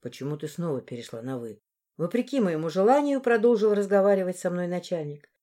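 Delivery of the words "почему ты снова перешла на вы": low, quiet man asking; lowered male voice. Acted. Boss asks why she switched to formal, low and quiet. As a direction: drop the voice low, puzzled.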